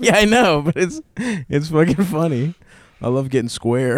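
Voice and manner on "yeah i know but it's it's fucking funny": laughing. Real, not acted. Laughing about joke.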